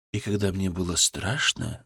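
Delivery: soft soothing voice; calm a frightened girl gently; soft spa whisper. Acted. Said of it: "мягким, успокаивающим голосом".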